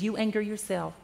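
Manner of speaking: lightly voiced grandma setting him straight; calm grandma voice. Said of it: "She says".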